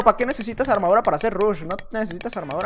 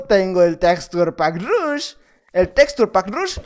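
drawn-out, savoring each word; slow boast; 2 semitones lower, much slower than usual. Acted. Gamer bragging to his rival about his texture pack, slow boast. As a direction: boast it slowly like a villain.

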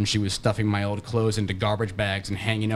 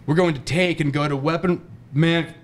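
hammed-up military yelling order; riot yell; 5 semitones higher than usual. A narrator's reading. Friend calls ordering him out, yelling. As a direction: bark it like a riot commander. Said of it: "he yells in his Section eight Merman riot voice".

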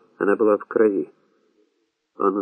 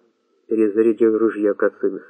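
usual speaking voice

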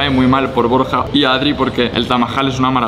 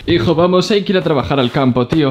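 father voice; 4 semitones higher than usual. Pretend. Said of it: "Me siento un padre".

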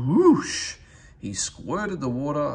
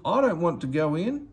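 scared engine; 6 semitones higher, 4 dB louder than usual. Acted. Frightened engine refuses.

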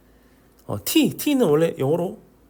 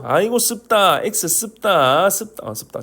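joking Korean dialect on 씁다; playful regional Korean dialect pun. Pretend. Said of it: "사투리네".

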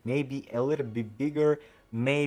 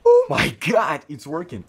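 sudden high, loud shriek of joy; real excited yell; excited shout; 6 semitones higher, 13 dB louder than usual. Real, not acted. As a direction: burst out as it finally works. Ability suddenly works, shouts.

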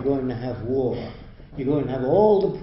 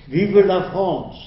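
slow, loud, higher French declaration; mock French patriot; 5 semitones higher, 6 dB louder, slower than usual. Lecturer voicing a French upbringing, slow mock-patriotic French cry. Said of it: "the way you would speak".

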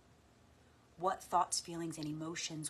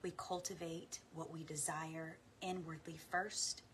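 guided meditation; 3 dB quieter than usual. Acted. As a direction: gently guide listeners inward.

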